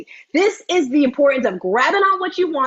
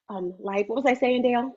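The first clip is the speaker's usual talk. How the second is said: usual speaking voice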